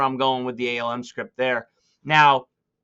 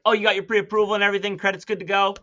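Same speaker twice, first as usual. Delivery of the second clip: fast, higher, breezy check-in; quick nonchalant; 5 semitones higher, 4 dB louder, faster than usual. Shown as a demonstration. Agent checking buyer's credit, quick and offhand. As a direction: toss it off like a formality. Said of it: "if you're very nonchalant about it".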